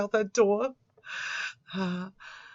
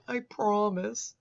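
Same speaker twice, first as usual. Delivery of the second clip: slow, wimpy mock plea; a limp, drawn-out promise; pussified; 3 semitones higher, slower than usual. Mocking how he types it, a slow whiny promise. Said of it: "that's how I read it".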